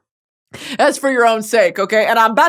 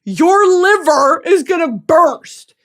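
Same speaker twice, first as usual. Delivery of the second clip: mock stern doctor; 5 semitones higher, 4 dB louder, much slower than usual.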